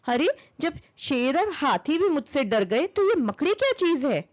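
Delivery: hammed-up outrage at the spider's boast; furious fly. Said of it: "आग बबूला हो गई".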